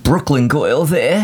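New York Queens accent, drawn out. Shown as a demonstration. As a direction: say it like a Queens local. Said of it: "I'm saying it in a Queen's accent".

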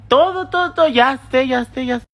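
high, loud "todo, todo"; exasperated cutoff. Real, not acted. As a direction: shut them down before they speak. Cutting off imagined critics.

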